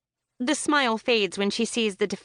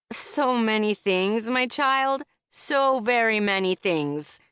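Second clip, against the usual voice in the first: mock wise; 2 semitones higher, slower than usual. Mock-wise reply to Lizzie.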